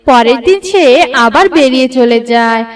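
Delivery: ordinary delivery, nothing marked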